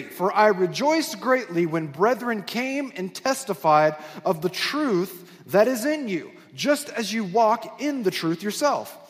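slow, measured Bible reading; deliberate, spaced-out phrases from the pulpit; Scripture reading. Acted. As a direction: read the verse out slowly to the congregation. Reads Scripture aloud.

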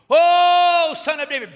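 high, loud wailing call; cry out. Retold or imitated. Beggar cries to Jesus, high loud wail. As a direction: cry out to God in faith. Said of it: "He hears that cry".

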